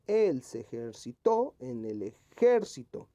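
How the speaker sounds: él, ejerciTÓ and eJÉRcito punched, slowly; ejercitó and ejército with exaggerated, contrasting stress; stress on accented syllables. Shown as a demonstration. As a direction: hit él, the final TÓ of ejercitó, the JÉR of ejército. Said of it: "sería más bien".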